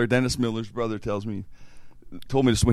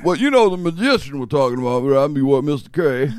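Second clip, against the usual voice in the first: lightly voiced old man, pitched up; old guy voice; 4 semitones higher, 4 dB louder than usual. Fake IRS agent bringing up the magician, lightly voiced old guy. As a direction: imitate a rambling old official lightly. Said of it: "He does this old guy voice".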